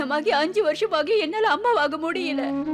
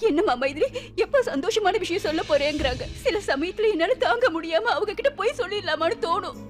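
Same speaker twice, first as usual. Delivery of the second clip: tearful sobbing lament; crying. Acted. Wife crying to her husband about the neighbours' taunts, sobbing. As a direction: cry out the pain of being childless. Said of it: "நீ இப்படி அழாத".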